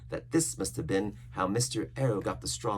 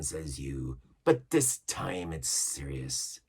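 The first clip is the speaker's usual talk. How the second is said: pirate cook deciding. Acted. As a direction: weigh each word. Cook votes for death.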